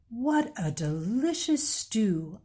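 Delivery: slow, lightly voiced Amu, savoring. Storyteller voices Amu praising her own stew, slow and savoring. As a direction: linger over the stew like a happy cook. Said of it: "Amu said".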